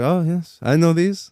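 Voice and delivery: put-on light French accent. Kennel man greeting the dogs, light French accent. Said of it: "I think he's French".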